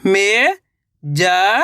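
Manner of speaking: मे-जा-र stretched out syllable by syllable; very slow syllables. Shown as a demonstration. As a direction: drag out each syllable of मे-जा-र. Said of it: "अब आगे देखिए". (मे-जा-र बहुत धीरे अक्षर-अक्षर करके)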